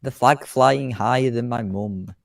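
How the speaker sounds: a hint of a show commentator; air show announcer. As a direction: introduce the plane to the crowd.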